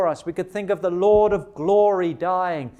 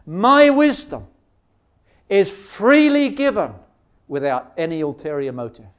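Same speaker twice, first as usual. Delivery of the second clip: voicing God; 4 dB louder than usual. Preacher gives God's reply to worldly offers, lightly voiced. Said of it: "says God".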